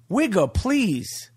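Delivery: slow, drawn-out dismissal, stretching each word; drawn-out dismissive. Acted. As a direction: wave it off slowly, like a catchphrase. Catchphrase, slowest take.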